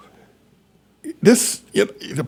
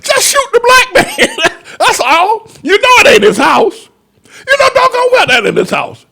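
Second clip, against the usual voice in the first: laughing mock order; 5 dB louder than usual. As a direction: squeal the order through laughter.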